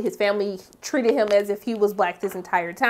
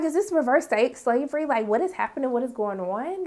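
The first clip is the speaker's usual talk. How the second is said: softly baffled questions; confused; 6 dB quieter than usual. Retold or imitated. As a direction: quote your own confusion, trailing softer. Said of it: "very confused".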